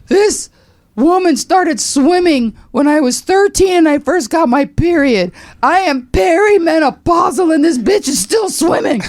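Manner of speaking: high, loud, tearful rave; emotional on-air outburst. Retold or imitated. Host on air crying over her hero's swim. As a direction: gush into the mic, near tears. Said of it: "And I said".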